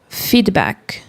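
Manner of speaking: "Feedback" in English, no extra vowels, ending dry on the k; English pronunciation. Shown as a demonstration. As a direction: cut "Feedback" off sharply at the final k. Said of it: "O correto é terminar o som no K. E aí fica seco". ("Feedback" em inglês, seco, terminando no K)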